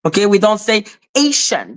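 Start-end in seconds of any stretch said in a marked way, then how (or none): 1.2-1.8 Asian for Haitian, AY-shun; English-style pronunciation. Shown as a demonstration. Showing what French doesn't say, English-style pronunciation. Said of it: "not how you say it in French".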